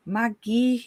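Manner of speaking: Magi said as MAH-ghee with a hard g, rising; hard g pronunciation. Shown as a demonstration. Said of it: "flummoxed by how to pronounce".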